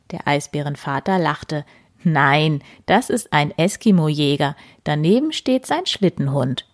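gentle storyteller with voiced animals; reading to children. A narrator's reading. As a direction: read it cosily to little listeners. Reads bedtime story aloud.

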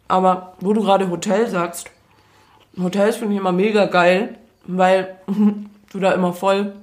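talking while chewing; words round a bite of food; mouth full. Real, not acted. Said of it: "Schluck erst mal runter".

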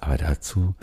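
soft teasing whisper. Real, not acted. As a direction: whisper the teaser.

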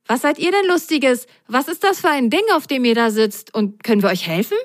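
put-on high, eager child voice full of questions; high curious kid voice; whale child voice.

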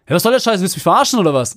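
imitating angry driver. Driver yelling out his window at the van man. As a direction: bark it like an enraged driver.

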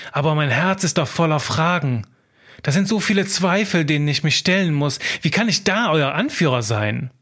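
anxious scribe. Acted. Scribe alone at night, doubting himself, worried inner voice. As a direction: fret as the scribe who fears being found out.

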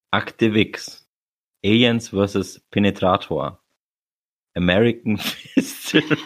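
trying not to laugh, reading titles; suppressed laughter cracking through; reading while holding back laughter. Real, not acted. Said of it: "du musst mir die vorlesen, ohne zu lachen".

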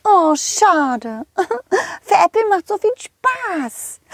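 squeaky high cartoon horse calling out. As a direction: play a cheerful high-pitched pony. Rosa teases. (hohe quietschige Pferdestimme)

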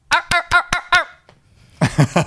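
high barking ow-ow sea lion. Retold or imitated. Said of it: "Seelöwe".

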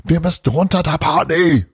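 put-on high, loud urgent child yell; boy yelling to the elf. A narrator's reading. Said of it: "Also wurde Bruno noch lauter".

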